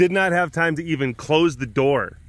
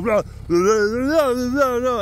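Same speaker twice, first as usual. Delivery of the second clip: excited dog bark; 7 semitones higher, slower than usual. Retold or imitated. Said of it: "he's just like, not mean".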